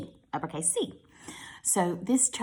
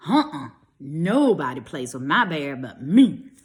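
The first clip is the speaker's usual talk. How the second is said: put-on whispered, protective child refusing; possessive child; 4 semitones lower, 6 dB louder than usual. Grady refusing his cousin the bear, whispered. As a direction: hiss it like guarding a treasure.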